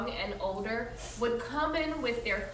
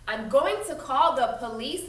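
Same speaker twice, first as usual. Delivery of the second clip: louder threatening warning; 2 semitones higher, 5 dB louder than usual. Acted. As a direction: threaten her with the police. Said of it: "Blake threatened".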